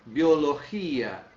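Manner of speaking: Biologia drawn out very slowly; teacher stressing Biologia; slow syllables. Shown as a demonstration. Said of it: "aqui eu tenho um detalhe".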